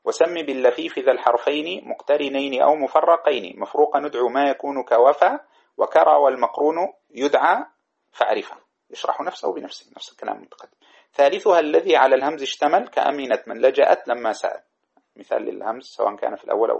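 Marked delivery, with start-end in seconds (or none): 0.0-8.6 chanted grammar verse, measured; reciting a didactic poem in a lilting chant; verse recitation. Shown as a demonstration. 11.1-14.6 chanted grammar verse, measured; reciting a didactic poem in a lilting chant; verse recitation. Shown as a demonstration.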